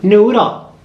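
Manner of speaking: high, loud sing-song name; high pet call. Shown as a demonstration. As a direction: coax the bird up high. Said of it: "Say it one more time".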